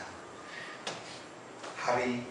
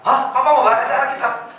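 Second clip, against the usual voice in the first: surprised daughter; 9 semitones higher, 6 dB louder than usual. Retold or imitated.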